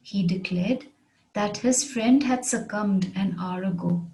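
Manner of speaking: measured, with a pause after "declared"; careful repeat, phrase by phrase; phrased model repeat. Shown as a demonstration. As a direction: break it into careful phrases for learners. Example repeated in phrases for learners.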